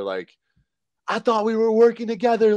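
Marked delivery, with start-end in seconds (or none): 1.1-2.6 angry confrontation. Retold or imitated. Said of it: "lay into her".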